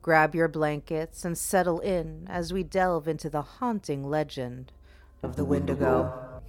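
sinister host welcoming the audience; a creepy host greeting his fiends; horror host. Acted.

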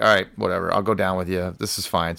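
low, trailing resignation; soft shrug of acceptance; retold reluctant agreement. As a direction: give in quietly, voice sinking. Acts out giving in to friend.

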